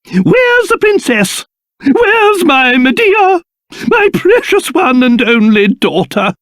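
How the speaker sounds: high, theatrical fretting; anxious calling. Acted. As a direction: call out for a missing daughter, stretched and high. Searching for his missing daughter.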